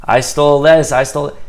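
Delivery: loud, halting guilty admission; tormented confession. Acted. Artist who can't live with himself, loud anguished confession. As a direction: confess it haltingly, drawing out the words. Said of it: "They can't live with themselves".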